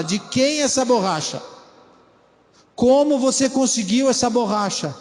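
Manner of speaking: pressing, pointed parent questions; mock interrogating father. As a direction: grill the kid about the eraser. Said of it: "Parece conversa de filho e pai".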